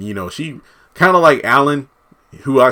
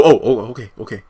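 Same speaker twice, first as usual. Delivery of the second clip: flustered okays through a laugh; laughing retreat; laughing backing off; faster than usual. Retold or imitated. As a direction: back down with a chuckle.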